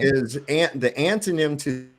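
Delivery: breaking up on a bad connection; choppy, cutting-out call audio; call dropping out. Real, not acted. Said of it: "You're glitching".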